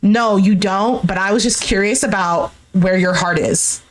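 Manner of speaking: low, subdued retelling of someone fighting tears; holding back tears. Retold or imitated. She answers her ex after he says that, mildly imitated tearful restraint. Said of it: "sounds like she's holding back tears".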